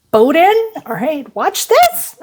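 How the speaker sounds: retold defiant threat, drawn out at the end; defiant dare. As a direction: throw down a dare, pitch climbing. Retold dare to her watching husband.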